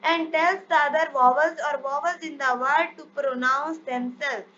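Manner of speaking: reads the English rule out very slowly, word by word; measured classroom dictation. Shown as a demonstration. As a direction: spell out the rule slowly for students to copy.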